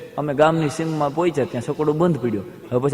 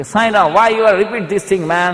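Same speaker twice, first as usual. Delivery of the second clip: higher, slow, baffled questioning with a foreign lilt; puzzled foreigner; 4 semitones higher, 3 dB louder, much slower than usual. Retold or imitated. European guest asking the host, baffled, why he keeps worshipping plants. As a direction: drag out the question, incredulous.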